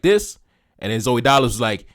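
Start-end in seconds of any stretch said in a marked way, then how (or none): 0.0-0.4 high rising this; surprised question. Retold or imitated. A singer doubting the song, high surprised question. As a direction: sound doubtful, pitch jumping up. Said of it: "he was like".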